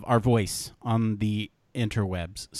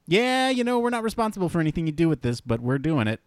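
high, breezy, fast shrug-off; mock careless company voice; 5 semitones higher than usual. Mocking the voice-cloning website's disclaimer in a breezy tone. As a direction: toss it off like a company dodging blame. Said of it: "really like".

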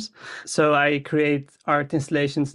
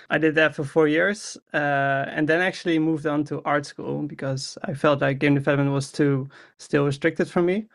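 ordinary talk, nothing marked

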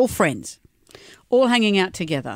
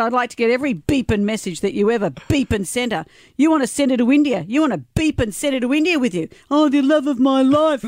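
higher mock-angry rant; hammed-up scornful accusation; retold jealous tirade; 5 semitones higher than usual. Host reading her rant about the ex-girlfriend, mock outrage. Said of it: "And she said".

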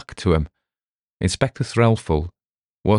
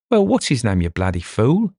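higher, mock roar at a fool; 4 semitones higher than usual. Detective roaring at his baffled sergeant, hammed-up yell. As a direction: bellow it in exasperation. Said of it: "roared Dover".

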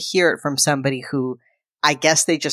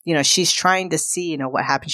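ordinary talk

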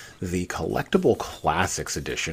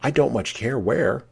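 lightly voiced Alice, pitched up; a higher voice for the little girl; Alice's voice; 9 semitones higher, 4 dB louder than usual. A narrator's reading. Alice replying to the cat, lightly pitched up.

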